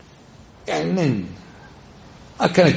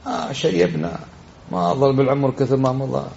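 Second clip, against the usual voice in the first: mock old-man lament. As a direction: groan it out as if life is over. Imitating a man lamenting old age.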